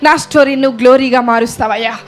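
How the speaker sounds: fervent prayer led aloud for the church; pleading prayer rising in pitch; model prayer. Shown as a demonstration. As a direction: pray it out earnestly to the Lord. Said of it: "ప్రభువుకి చెప్దామా?".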